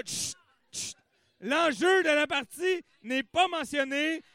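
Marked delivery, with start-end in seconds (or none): 0.1-0.9 whispered shush. Real, not acted. Hushing a noisy crowd.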